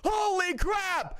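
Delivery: high, drawn-out stunned exclamation; slow awe. Real, not acted. Streamer awed by a big donation, slow and high. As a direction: let it hang in amazement.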